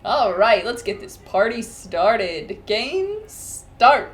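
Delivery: deep manly announcer. Retold or imitated. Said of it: "it has a deep, manly voice".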